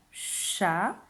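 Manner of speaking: "Chapiteau" as cha, pi, teau with very long gaps; syllable by syllable. Shown as a demonstration. Teacher making one box per syllable, word split by long pauses. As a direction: draw out each syllable of "Chapiteau" on its own. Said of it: "qui correspondent aux syllabes".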